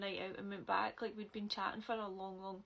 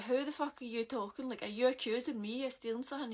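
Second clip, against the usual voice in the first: retold angry confrontation; 3 semitones higher, 4 dB louder, faster than usual.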